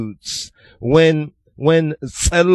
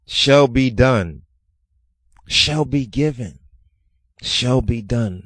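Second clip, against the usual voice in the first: meditative repetition; 4 semitones lower than usual. Shown as a demonstration. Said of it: "It's like a meditation".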